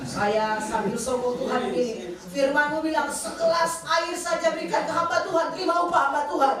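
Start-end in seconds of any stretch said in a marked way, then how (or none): 2.2-6.6 raised, higher claim on God's promise; insistent prayer. Retold or imitated. Wife holding ice water up to God, insistent retold prayer. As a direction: press God with His own word, re-enacted.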